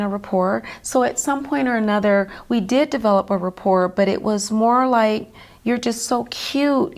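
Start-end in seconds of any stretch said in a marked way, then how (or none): 5.6-6.9 put-on slow, fond voice for a small child; doting on a child. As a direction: coo it gently like to a toddler. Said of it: "the way any adult would with a child".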